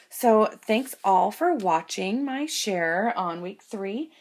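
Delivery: cheery sign-off. Real, not acted. Cheery outro to viewers.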